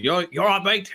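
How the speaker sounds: a mock Australian accent, laid on thick; terrible Australian accent. Imitating an Aussie YouTuber for friends, mock Australian accent. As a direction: do a hammed-up Aussie commentator, Australian throughout. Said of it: "terrible Australian, uh, accent".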